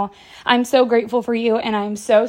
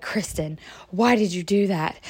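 disbelieving friend; 5 semitones lower, 7 dB quieter than usual. Retold or imitated. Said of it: "you'd be like".

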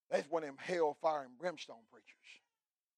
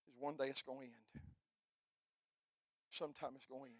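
hushed sermon; 3 semitones lower, 11 dB quieter than usual. Real, not acted. Sermon hush after raised voice.

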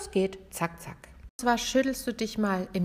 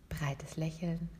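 whispered; 2 semitones lower, 8 dB quieter, slower than usual. Shown as a demonstration.

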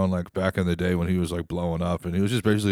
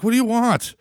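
exasperated; 14 semitones higher, 5 dB louder than usual. Real, not acted. Exasperated rant.

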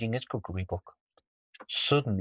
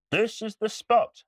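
pirate chief voice; 12 semitones higher than usual. Acted. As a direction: call it out like a pirate.

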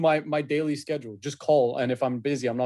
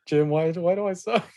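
mock whine; 3 semitones higher than usual. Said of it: "And she was like".

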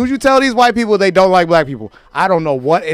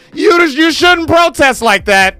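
high, slow louder scolding; mock scolding critic; 10 semitones higher, 4 dB louder than usual. Mocking critics scolding protesters, high and louder. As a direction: wag a finger at protesters.

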